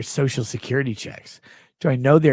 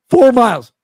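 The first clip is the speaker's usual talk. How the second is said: mocking whiny voice; 8 semitones higher, 12 dB louder than usual. Mocking reply.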